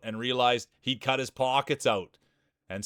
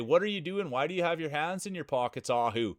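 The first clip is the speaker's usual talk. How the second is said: higher, lightly voiced scolding parent; 5 semitones higher than usual. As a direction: ask like a puzzled parent catching him out. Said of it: "his parents would say".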